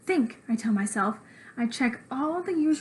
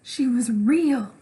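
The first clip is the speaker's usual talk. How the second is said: slow, louder insistence; insistent scream; 5 dB louder, much slower than usual. Acted. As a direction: shout it so he believes. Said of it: "I scream".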